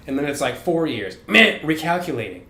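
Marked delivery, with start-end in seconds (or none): 1.3-2.4 a hint of an app announcing; imitated system alert. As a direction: lightly mimic the buzzer, then the notice. Voicing the app's error announcement.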